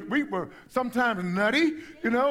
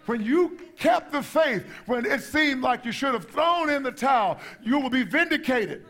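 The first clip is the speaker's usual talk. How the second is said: raised, emphatic preacher's delivery; impassioned preaching; 4 semitones higher than usual. Real, not acted. Preacher assuring believers they will be vindicated, impassioned preaching. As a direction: preach it out to the congregation with conviction.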